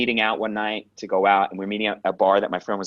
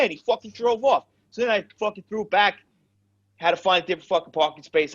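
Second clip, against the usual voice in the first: high-pitched agitated account; worked-up retelling; 9 semitones higher than usual. Retold or imitated. Brother explaining why he was late, worked up. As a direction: imitate a brother still wound up.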